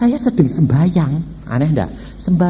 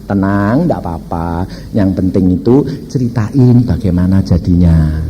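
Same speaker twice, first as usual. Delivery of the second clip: calm reassurance; 8 semitones lower than usual. Retold or imitated. Reassures the frightened helper.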